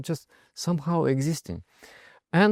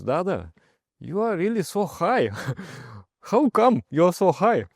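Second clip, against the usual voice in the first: amazed question; 7 semitones higher, 3 dB louder than usual. Retold or imitated. Friend's amazed question retold.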